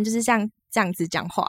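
a light Taiwanese accent. Shown as a demonstration. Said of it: "一就是非常的台湾".

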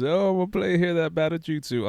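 banjo-playing hillbilly accent; appalachian accent. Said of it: "Why you sound like a hillbilly?".

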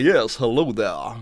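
slow, exaggerated Southern drawl for the detective; Southern drawl impression. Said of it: "'cause he was like".

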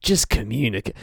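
a hint of a smooth lover's croon; lightly crooned seduction, half joking; mock sultry deep voice. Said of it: "Where's your lower register?".

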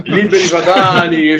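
laughing while saying it, slow. Real, not acted. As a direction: chuckle through the title. Laughing name of a song.

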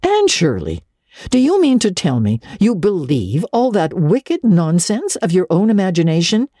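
a touch of amazed disbelief, lightly voiced; mildly incredulous, scolding a fanciful girl. A narrator's reading. Marilla scolding Anne, mildly amazed. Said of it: "some amazement".

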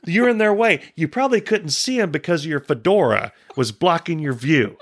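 high, exasperated retelling, hammed up; high mock scolding of a stranger blocking the records; mock confrontation. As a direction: scold the fedora guy in a high mock rant.

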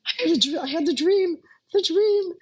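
high, loud, thrilled rising cry; excited. Retold or imitated. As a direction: blurt it out, overjoyed and breathless. Waking from the prophetic dream.

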